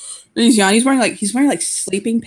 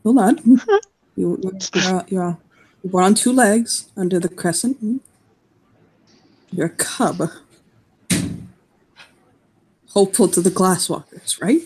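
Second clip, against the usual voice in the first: gentle. Acted. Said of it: "he'll say gently".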